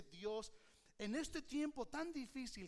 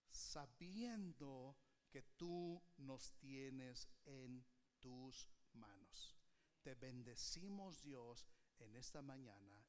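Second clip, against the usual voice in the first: prayer; 3 semitones lower than usual. Acted. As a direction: pray over the congregation. Leads closing prayer.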